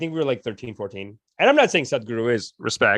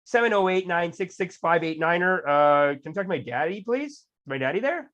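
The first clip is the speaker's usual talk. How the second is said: fake phone call; 5 semitones higher than usual. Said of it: "he goes".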